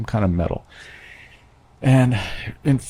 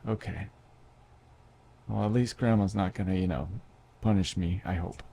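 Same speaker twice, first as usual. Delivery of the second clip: quiet inner thought; 5 dB quieter than usual. Retold or imitated. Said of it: "I had this".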